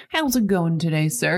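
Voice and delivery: low-pitched, chummy imitation of a man; overfriendly husband. Husband buttering up border guard, overfriendly. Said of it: "trying to be his best friend".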